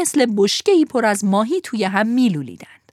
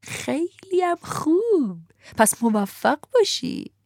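sly coachman; 8 semitones higher, slower than usual. Acted. Coachman answers slyly.

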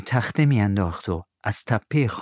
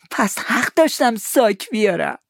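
put-on higher eager boy; Tom's boyish voice; 13 semitones higher, 3 dB louder than usual. Tom asks Huck to help find the money, eager. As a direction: sound young and keen.

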